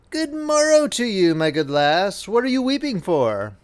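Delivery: lightly voiced little man, high start; a droll little man greeting the girl; hobgoblin voice. Hobgoblin asks the weeping miller's daughter, lightly high voice. Dwarf's voice in story.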